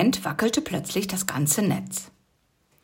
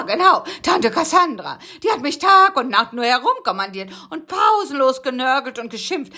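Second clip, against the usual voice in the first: whiny bug voice; 6 semitones higher than usual. Acted. Rocky telling of his wasp captivity, high and whiny. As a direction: moan about the wasps.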